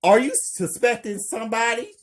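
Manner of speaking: fast, high yelled question; loud, high-pitched, hurried call; yelling. A narrator's reading. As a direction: yell the question quickly to someone in another room. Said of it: "Amber yells".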